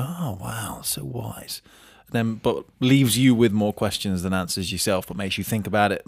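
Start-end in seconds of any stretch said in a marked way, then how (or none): 0.1-1.6 hushed, softer mock wonder; breathless little mock marvel at the coach; mock awe. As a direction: play the dazzled client, gently mocking. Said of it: "makes you go".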